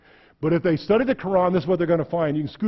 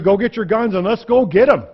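loud rallying shout; rally cry; 3 semitones higher, 6 dB louder than usual. Retold or imitated. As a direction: fire up a crowd for a fight. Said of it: "have a rally and tell you".

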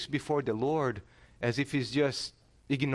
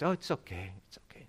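dismissive brush-off; 8 semitones lower, 5 dB quieter, faster than usual. Retold or imitated. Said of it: "No, it's not okay".

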